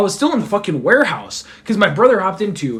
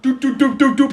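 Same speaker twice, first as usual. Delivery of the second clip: video game climb noise; 6 semitones higher than usual. Retold or imitated. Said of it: "And I was like".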